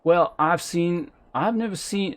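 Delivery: put-on low-class accent with dropped H's; wobbly low-class character accent. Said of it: "accents I just devolve into".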